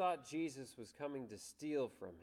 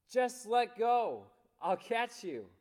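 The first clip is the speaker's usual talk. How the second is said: voice from heaven; 7 semitones higher, 7 dB louder, slower than usual. Retold or imitated. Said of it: "the voice of Jesus".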